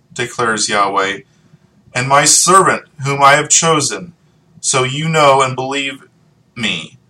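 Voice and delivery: solemn public reading of scripture. Acted. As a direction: read the verses aloud to the congregation. Continues reading Isaiah.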